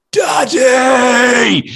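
put-on loud, high, long-drawn child's yell; child calling out. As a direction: imitate a kid hollering for a parent, high and loud. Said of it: "hear this voice going".

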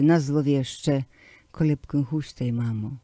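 usual speaking voice

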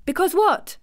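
high-pitched, eager question; eager cry. A narrator's reading. Boy begs his friend to finish her secret, eager cry. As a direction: demand the rest eagerly. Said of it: "he cried eagerly".

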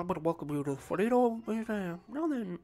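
high, light "Now then"; trying a character voice. Shown as a demonstration. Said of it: "I don't know what his voice would be".

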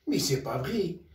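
مي سي با فغي said again through a laugh; amused repeat. Real, not acted. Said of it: "repeated with a laugh".

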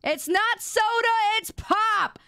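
high-pitched emphatic correction; indignant, punchy correction; mock outrage. Mock outrage over soda versus pop.

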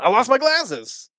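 high, loud, slow wail; mock panic about lost glasses; panicked cry. Kid crying out to sister in high mock panic.

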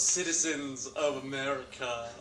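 Barack Obama impression. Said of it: "Barack Obama talking like that".

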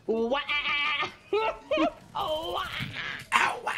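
strangled wailing noise. Pretend. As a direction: wail "wah" between laughs. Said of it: "sounds like she's having a fucking stroke".

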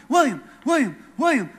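lightly voiced teacher calling out a name. Kindergarten teacher calls an unresponsive boy, calling out. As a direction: call the child by name, mildly insistent. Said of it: "my teacher's calling me".

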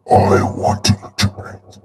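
filtered zombie moan; 좀비 목소리. Pretend. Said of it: "A zombie".

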